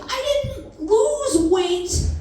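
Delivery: slow, high, emphatic denial; drawn-out emphasis. Real, not acted. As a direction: stretch "I didn't lose weight" slowly, pitched well up.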